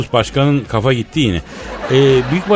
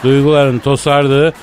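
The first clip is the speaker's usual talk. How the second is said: booming poetic announcer; grand announcement; 2 semitones higher than usual. Acted. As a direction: announce poetry time with pomp. Announces poetry time grandly.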